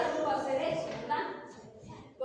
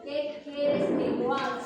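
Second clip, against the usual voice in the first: louder, slow plea with "quieres" stressed; earnest plea; 6 dB louder than usual. Acted. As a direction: beg slowly, leaning on "quieres". Preacher urging to ask God. (súplica lenta y fuerte)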